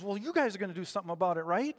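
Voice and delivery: fast, pleading push; eager push. Acted. David urging his brothers to act, fast and eager. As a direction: rush it out, expecting them to act.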